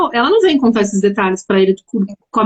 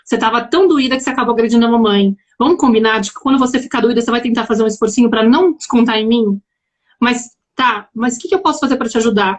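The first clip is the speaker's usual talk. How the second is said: gently voiced, understated empathy; sympathetic; 2 semitones lower than usual. Mother to daughter who lashed out, retold with mild sympathy. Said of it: "olho pra ela com a simpatia e falo".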